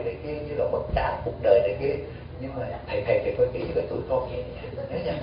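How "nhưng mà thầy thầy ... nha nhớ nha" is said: mock pleading. Mock plea of devotee to monk.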